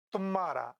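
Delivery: तुम्हारा said as "tum-maara", stressed first syllable; तुम्हारा with a heavy first syllable, h swallowed. Shown as a demonstration. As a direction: lean on the तु of तुम्हारा, doubling the m. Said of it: "तुम्हारा में तू भी गुरु हो जाएगा क्योंकि बलाघात है".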